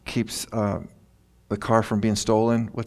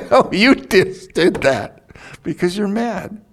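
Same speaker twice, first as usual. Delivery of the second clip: God's reply; 9 semitones higher, 5 dB louder than usual. Retold or imitated. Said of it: "He's going".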